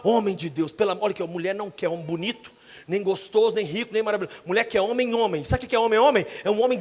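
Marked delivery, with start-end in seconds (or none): 0.0-1.0 a lower, manlier voice; deeper voice. Shown as a demonstration. Pastor showing husbands how to speak, deeper voice. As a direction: drop the voice to sound like a man in charge. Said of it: "Engrossa a voz sua".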